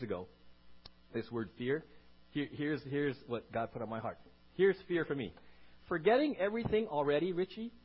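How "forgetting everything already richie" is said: loud high rebuke; voice of God. Retold or imitated. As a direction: call him out loudly. God's rebuke heard by preacher.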